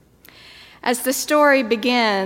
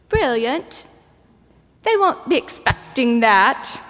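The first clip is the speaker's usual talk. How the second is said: lightly imitated New Zealand kid; a touch of a child's New Zealand accent. Preacher echoes the littlest child's line in a light New Zealand accent. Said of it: "precious New Zealand accent".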